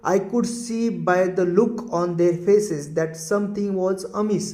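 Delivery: very slow, deliberate sentence read with long pauses; slow example reading. Shown as a demonstration. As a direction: dictate the sentence to the class. Reads example sentence slowly. (धीमे-धीमे वाक्य पढ़ना)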